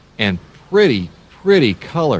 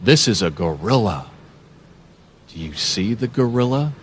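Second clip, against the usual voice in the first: ordinary talk, nothing marked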